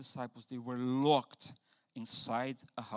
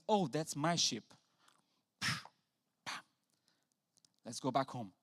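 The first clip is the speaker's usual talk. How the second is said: tender shepherd. Retold or imitated. Jesus gently bringing his lost sheep home. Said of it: "goes over there and says".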